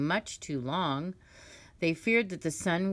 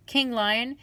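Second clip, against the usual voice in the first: crow's excuse; 3 semitones higher, 4 dB louder than usual. Acted. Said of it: "He said".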